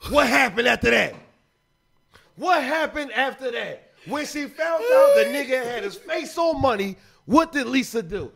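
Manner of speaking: impassioned sermon-like retelling with punched phrases; preaching. Real, not acted. Man retelling a movie to prove his point, preaching. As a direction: preach the story like a lesson. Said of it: "It's like he preaching right now".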